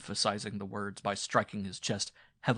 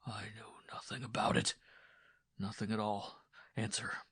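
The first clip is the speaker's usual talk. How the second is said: softened. Acted. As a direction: ease off a little. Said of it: "his voice softened a little".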